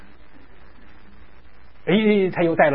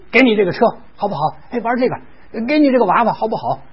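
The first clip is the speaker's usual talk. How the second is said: put-on higher, eager coaxing of a toddler; raised-pitch child-soothing patter; coaxing with toys; 6 semitones higher than usual. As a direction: talk to a crying child, offering toys hopefully. Offering toys to a crying child.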